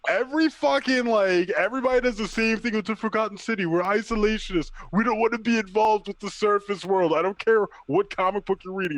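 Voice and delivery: high-pitched, fed-up tirade; exasperated rant. Real, not acted. Co-host fed up with Atlantis in comics, exasperated rant.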